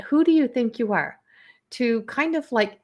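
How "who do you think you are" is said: mock sassy challenge. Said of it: "I just got that".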